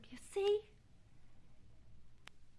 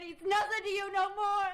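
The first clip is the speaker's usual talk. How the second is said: loud, high outburst; pained rising cry; raised voice; 8 semitones higher, 7 dB louder than usual. Acted. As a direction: throw the hard words out. Catherine in an emotional plea.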